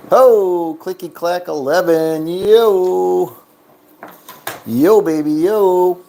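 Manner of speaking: loud, high cheer over the winning roll; celebrating. Real, not acted. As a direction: whoop it up at the table.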